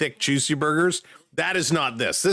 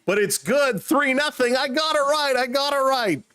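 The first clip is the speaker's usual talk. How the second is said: much higher, gleeful cry of being right; thrilled; 9 semitones higher than usual. Real, not acted. Streamer celebrating his correct field goal bet, gleeful and much higher. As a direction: crow about winning the bet.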